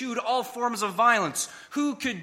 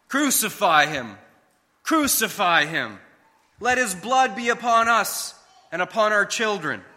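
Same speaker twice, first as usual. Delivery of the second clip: hateful crowd; 2 semitones higher, 5 dB louder than usual. Retold or imitated. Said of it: "the hatred in the crowd's reply".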